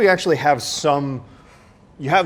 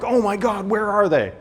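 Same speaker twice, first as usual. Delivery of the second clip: put-on high, alarmed lost-kid voice; like a kid who lost their parents; panicked at the mall; panicked child; 9 semitones higher than usual. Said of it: "you're like".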